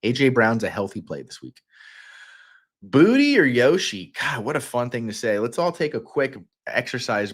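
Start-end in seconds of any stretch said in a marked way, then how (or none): 2.8-4.1 high, loud, drawn-out savoring; sing-song relish, pitched way up; playful relishing. Shown as a demonstration. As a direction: play with the sounds slowly and loudly. Relishing a fun phrase aloud.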